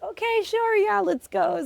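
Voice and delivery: high, chirpy okay sure; eager agreement. Retold or imitated. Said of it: "And I was like".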